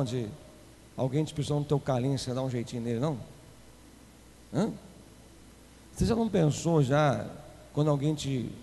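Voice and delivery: confiding aside. Acted. Quiet fast confiding aside.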